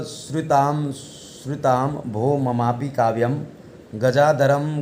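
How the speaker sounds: slow, measured recitation, drawing out each line; Sanskrit verse recitation. Acted. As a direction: chant the boy's verse slowly for the class.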